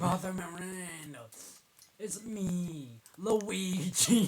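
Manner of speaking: lightly mock Italian accent; stereotypical Italian. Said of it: "I'm just thinking it's stereotype-, stereotypical Italian".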